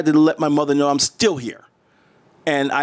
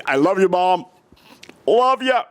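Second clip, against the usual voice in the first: higher-pitched "love you" to Mom; affectionate, raised acted voice; 6 semitones higher than usual. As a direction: call it out to Mom, pitch climbing. Acts out affection he never voiced.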